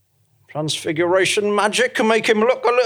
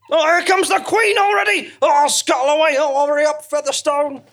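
flustered; 3 semitones higher than usual. Acted. Panicked flight from the Queen.

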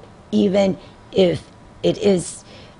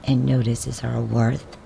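measured, lower devotional verse reading; poem reading; 4 semitones lower, 5 dB quieter than usual. Acted. Reading a devotional poem to listeners, measured poem reading. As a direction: recite the rhyme gently, line by line.

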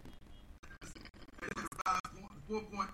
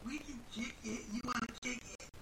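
put-on country accent; 3 dB quieter than usual. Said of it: "they got that country accent".

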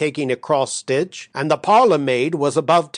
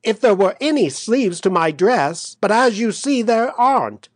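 pitched up, a touch hysterical; high, lightly acted upset; half laughing, half crying; 6 semitones higher than usual. A narrator's reading. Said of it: "half laughing and half crying".

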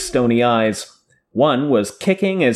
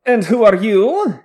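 demanding; 10 semitones higher, 4 dB louder than usual. A narrator's reading. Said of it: "he demanded in a Tarabonner accent".

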